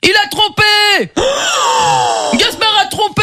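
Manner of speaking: outraged shout. Acted. Wedding objection outburst.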